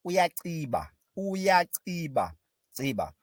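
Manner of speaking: Uyaciba with a click on the c; teacher drilling a Zulu click word. Shown as a demonstration. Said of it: "we call that ciba in isiZulu".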